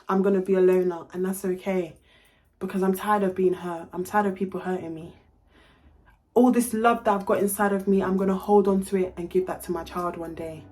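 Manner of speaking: low and soft, resigned; sad resignation. Real, not acted. Telling viewers she will be a loner, sad and resigned.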